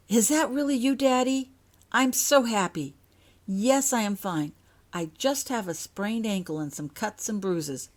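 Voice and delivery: put-on high, loud young girl's voice; girl's happy note. Daughter writing to her parents, high bright girl's voice.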